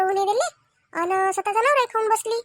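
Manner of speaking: loud, bitter accusing outburst; angry accusation. Acted. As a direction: hurl the accusation at her. Quarrel, wife accuses sister-in-law.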